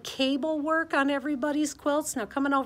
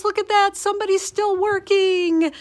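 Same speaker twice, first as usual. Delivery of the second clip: delighted surprise; 8 semitones higher, 6 dB louder than usual. Real, not acted. Spots a classmate still sewing.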